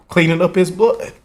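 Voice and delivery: fighting tears as he remembers; holding back tears. Real, not acted. Son telling viewers how he found his dad, near tears. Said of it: "excuse my tears".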